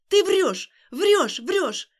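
loud high screams of "liar"; hysterical yelling. Acted. Alina beating Stas with her fists, screaming. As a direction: scream it at him over and over.

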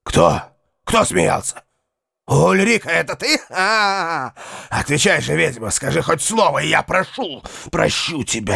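panicked, high frightened cries; terrified voice. Acted. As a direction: cry out in terror. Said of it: "изменившимся голосом".

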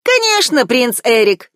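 calm, high bird voice, unbothered; unruffled seagull. A narrator's reading. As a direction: answer like an unflappable gull. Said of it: "невозмутимо ответила Чайка".

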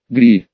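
shrill monkey shriek "Гри"; nasty monkey screech. Acted. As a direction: let out a nasty little screech. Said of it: "раздался мерзкий визг".

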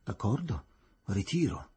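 low, offhand agreement; nonchalant. A narrator's reading. Superintendent conceding to the magistrate, nonchalant. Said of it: "dicendo con noncuranza".

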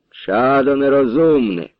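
slow, a hint of a stern priest; lightly voiced priest rebuke. Priest rebuking a foolish young man, a hint of stern. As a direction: chide him slowly like an old priest.

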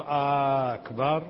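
"آه أكبر" drawn out slowly, rising at the end; questioning drawn hamza. Shown as a demonstration. Teacher demonstrating the mistaken questioning takbir. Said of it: "هل الله أكبر".

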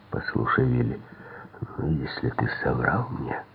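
soft, dull-voiced warning; muffled threat. A narrator's reading. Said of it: "глухим голосом".

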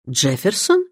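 rising, questioning repeat of "Джефферсон"; questioning echo. A narrator's reading. Hostess checks the name she just heard, questioning. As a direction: echo "Джефферсон" with the tune lifting at the end. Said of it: "переспросила миссис Бантри".

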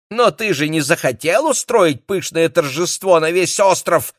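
высокий, громкий капризный голос; капризничай, как избалованная жена; капризная Мэйли. Acted. Мэйли оправдывается перед мужем. (жена капризно оправдывается перед мужем, высоким голосом)

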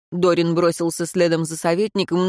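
usual speaking voice

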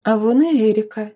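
usual speaking voice

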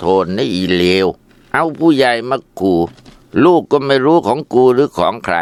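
husband raging at his wife; contemptuous rant. Acted. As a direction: spit insults at her.

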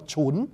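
"chún" spoken as C-H-U-N; pronunciation demo. Shown as a demonstration. Teacher showing the Chinese reading for lips, pronunciation demo. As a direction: say "chún" with a ch onset. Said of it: "là C H U N".

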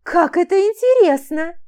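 high and loud with delight. Acted. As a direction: gush with excitement. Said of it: "радостно воскликнула Айрин".

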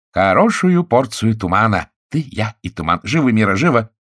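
husband excitedly calls his wife. A narrator's reading. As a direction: hurry her along with glee. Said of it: "закричал Пьер".

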